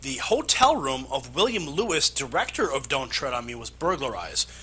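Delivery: measured anchor read with punched key words; scripted news-story delivery. Acted.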